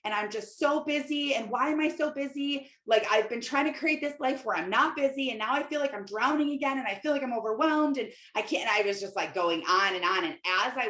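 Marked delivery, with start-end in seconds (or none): 0.0-8.7 higher, pleading words tumbling out; retold tearful rant. Calling her husband, a higher, teary, overwhelmed rant. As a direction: replay a teary outburst of feeling overwhelmed. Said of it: "I just instantly started crying".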